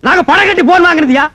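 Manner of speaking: indignant retort. Acted. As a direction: argue back, offended, at the caller. Phone quarrel with caller. (கோபமாக எதிர்வாதம்)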